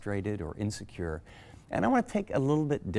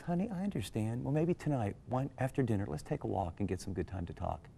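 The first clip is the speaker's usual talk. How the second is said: softer, tender reply; gentle reassurance; 7 dB quieter than usual. Retold or imitated. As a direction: soothe him kindly, hushed. Wife comforts after his apology.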